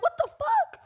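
very high squeaked disbelief; retold shocked disbelief. Retelling hearing own song on radio, high stunned squeal.

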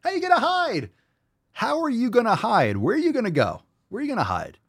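a high taunting voice ridiculing the clip; mocking squeak. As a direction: squeak it back at them in mock disbelief. Mocking the video's hiding message.

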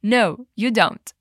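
slow, careful No, you don't; drawn-out classroom model; slow model phrase. Shown as a demonstration. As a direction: say No, you don't slowly for the learner to copy. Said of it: "Repeat after me".

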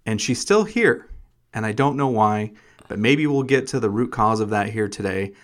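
polished host introduction; mild radio host delivery; podcaster voice. Acted. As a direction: introduce the guest like a show host. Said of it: "you have your podcaster voice on".

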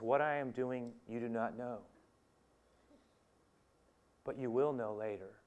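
calm, soft, unhurried assurance; soft, measured reassurance; gentle. Acted. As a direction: say it quietly and patiently. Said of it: "Jesus very gently at first".

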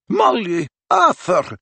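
high, anxious call; urgent greeting. A narrator's reading. McGonagall hurries to greet the parents, high and urgent.

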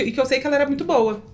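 normal talking voice

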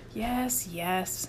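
smooth it over gently; soothing. A narrator's reading. Rudy humouring counselor Chip after punishment, soothing. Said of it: "soothed Rudy".

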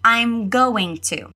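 slow, careful teacher model; slow model phrase. Shown as a demonstration. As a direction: say each word slowly for learners. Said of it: "agora diga". (fala bem devagar, modelando)

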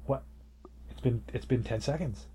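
mock-frantic climb from disbelief to high, loud outrage; announcers losing it. Chess fan imitating announcers counting the seconds, increasingly frantic. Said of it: "the announcers are losing their mind".

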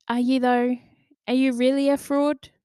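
high, loud challenge to oneself; sceptical self-questioning. Acted. Inner voice questioning the fraud thought, sceptical.

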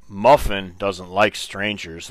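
slow, drawn-out retold line; slow, deliberate quote; retold uncle's pronouncement. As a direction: imitate the uncle, spacing the words out slowly. Retold uncle's odd excuse.

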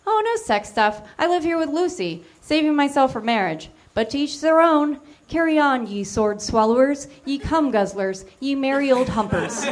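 put-on a touch of a prissy boy lecturing; prissy Linus. Linus voiced, higher.

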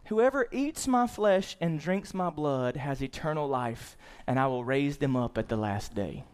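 slow, solemn verse reading; scripture reading. Acted. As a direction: give each phrase of the verse room. Reads scripture verse aloud.

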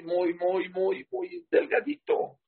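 slow, rising, drawn-out muy muy delgadito; stretched emphasis. Acted. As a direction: stretch each muy and lift delgadito high. Stressing how thin the sin is.

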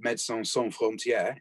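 Médecins Sans Frontières said in a light mock French accent; a playful hint of a French accent on the charity name; tossing off Médecins Sans Frontières in a jokey, barely French accent. Shown as a demonstration. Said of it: "in my best French accent".

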